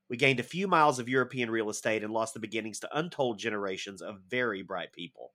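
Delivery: lightly voiced young soldier's voiceover; understated hint of Hawke's voiceover delivery; Ethan Hawke impression. Shown as a demonstration. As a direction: read it as a tired young sergeant narrating. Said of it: "I have to do this as Ethan Hawke".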